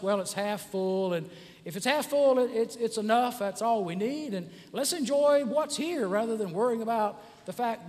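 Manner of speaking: upbeat, lifting as it goes on; optimist. Acted. Optimist answering the cup question, upbeat. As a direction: build cheerful reassurance, pitch climbing. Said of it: "if you're an optimist".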